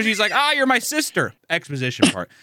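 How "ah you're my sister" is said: high-pitched mock anime anguish; melodramatic hero. Hero picking up his sister, mock-melodramatic. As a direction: declaim it in exaggerated high-voiced distress.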